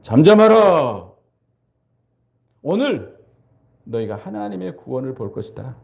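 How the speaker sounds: calm the crowd with authority; Moses commanding. Retold or imitated. Moses hushing the panicking people, then quieting. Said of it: "모세가 뭐라고 그랬어요".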